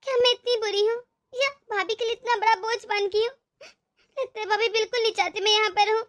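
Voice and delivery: tearful words with a sob in the voice; crying. Acted. Sister-in-law lied, she weeps alone.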